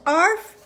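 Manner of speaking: short spoken arf with a punch; mock dog yap; dog barking. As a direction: imitate one loud little bark. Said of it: "Dog says".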